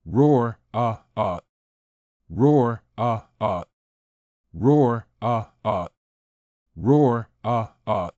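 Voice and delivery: a beast's roar trailing into growls; monster roar. Acted. Bear mascot roaring at the audience, beastly roar. Mascot roars repeatedly in battle.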